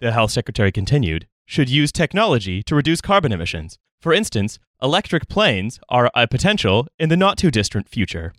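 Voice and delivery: formal news anchor read; newscaster. Shown as a demonstration. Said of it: "to sound like a newscaster".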